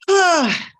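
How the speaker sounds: high, loud strained cry. Acted. Demonstrating vocal strain.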